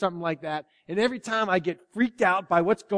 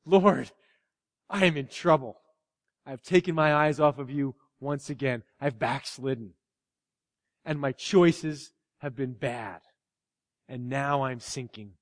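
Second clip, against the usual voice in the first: heartfelt confession, sinking into a hush; prayer from the heart; 4 semitones lower than usual. Shown as a demonstration. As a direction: pour it out honestly to God. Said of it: "prayer from the heart to God".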